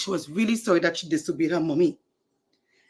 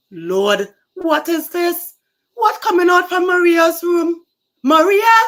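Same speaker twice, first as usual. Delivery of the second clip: high, loud alarmed calling out; alarmed cry; 10 semitones higher, 10 dB louder than usual. Acted. Mother spots smoke from daughter's room, alarmed loud cry. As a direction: shout it as a panicked mother finding smoke.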